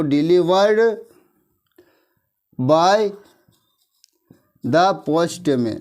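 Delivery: very slow, word by word with pauses; teacher reading out a sentence to write down; slow dictation. Shown as a demonstration. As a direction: dictate it so the class can copy. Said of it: "dictating an example sentence".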